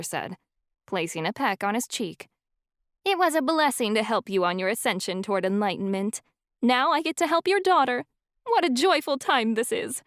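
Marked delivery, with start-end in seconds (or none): 3.0-10.0 lightly voiced serene mentor, lifted higher; a gentle, joyful elder teacher; Amber's serene voice. Wise professor welcoming the family, lightly voiced serene lift.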